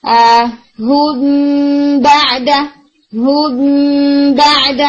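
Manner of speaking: lips just touching, no pressure, slow; ہلکے سے ہونٹ ملا کر اخفا; ikhfa shafawi demo. Shown as a demonstration. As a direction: close the lips lightly on ہو before بعد. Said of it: "اس کو pressurize نہیں کرتے".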